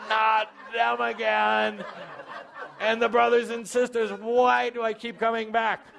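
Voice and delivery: whiny mock complaint. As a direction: act out a listener groaning about family. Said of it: "you go into".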